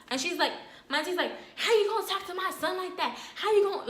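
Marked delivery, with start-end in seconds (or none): 1.6-3.9 high, mock-indignant auntie; imitating an aunt's high indignant challenge. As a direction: voice the auntie coming at her, pitched up. Auntie voiced confronting narrator.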